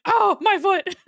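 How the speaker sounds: loud, high panicked cry; startled shout of pain; panicked yelp. Retold or imitated. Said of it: "The panic in my voice".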